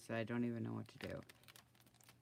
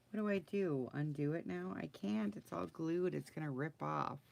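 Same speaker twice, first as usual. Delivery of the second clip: ordinary delivery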